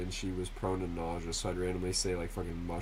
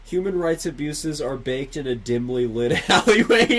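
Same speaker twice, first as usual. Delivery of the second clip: loud reading; 7 semitones higher, 12 dB louder than usual. Shown as a demonstration. First take of read phrase.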